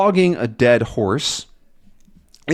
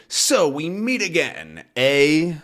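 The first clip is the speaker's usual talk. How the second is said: Thompson's line; 5 semitones higher, slower than usual. Acted. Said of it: "and they say".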